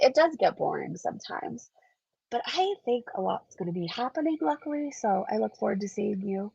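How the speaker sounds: blocked nose, talking through congestion; stuffed up. Real, not acted. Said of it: "I'm sorry I sound so stuffed up".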